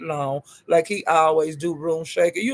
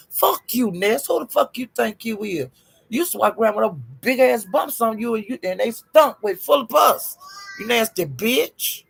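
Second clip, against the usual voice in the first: angry cussing out; 4 semitones higher than usual. Acted. Cussing out Ness directly.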